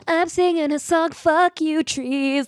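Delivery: hammed-up outrage at being told to stop singing; mock-indignant Frodo. Frodo yelling back at the trees, mock-indignant. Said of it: "Frodo's like".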